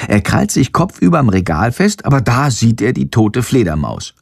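plain reading voice

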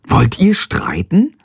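slow whispered question; whispering. Acted. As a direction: whisper it warily. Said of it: "fragt Freya".

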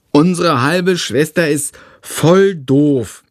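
put-on high child voice, slow and scornful; a small boy unimpressed; little boy, scornful. Tom grumbling to his brother about the new baby, scornful child voice.

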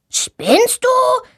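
high indignant snap; mock angry shout. A narrator's reading. Boy knocked over snaps at the girl, mock anger. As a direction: yell at her, lightly voiced. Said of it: "schreit er sie an".

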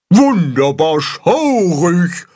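delighted carp. A narrator's reading. The carp cheer the monster act, slow delighted call. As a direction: relish each word like thrilled fish. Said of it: "rufen die Karpfen".

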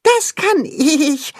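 little animal's playful roar; mock roar. A narrator's reading. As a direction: roar it proudly like a small animal. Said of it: "brüllt Tacho".

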